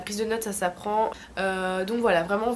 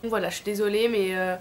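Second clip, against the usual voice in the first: speaking with a sore throat; hoarse from a sore throat. Real, not acted. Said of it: "voix dégueu, mais c'est simplement que j'ai une angine".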